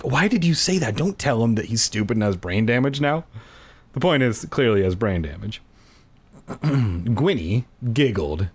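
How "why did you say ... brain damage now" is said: mock scolding. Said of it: "rather than saying, like".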